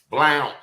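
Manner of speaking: Blount said like "blaunt", rhyming with count; firm corrective Blount, "blaunt" not "blunt"; correct pronunciation. Shown as a demonstration. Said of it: "and it's Blount".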